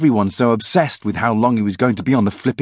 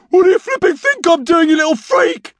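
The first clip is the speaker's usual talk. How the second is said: irritated yell, high and loud; Norm; 4 dB louder than usual. A narrator's reading. Fed-up boy yelling at his brother through the door. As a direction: yell back in exasperation. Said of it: "yelled Norm".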